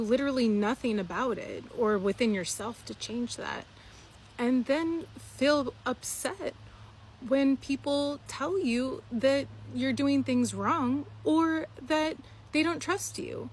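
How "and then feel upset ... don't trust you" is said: drawn-out, high-pitched mockery; slow, high mocking. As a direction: stretch it out high like a whiny complaint. Mocking the upset reaction.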